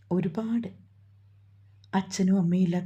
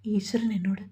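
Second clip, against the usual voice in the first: breaking into tears. Acted. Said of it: "അതും പറഞ്ഞവൾ പൊട്ടിക്കരഞ്ഞു".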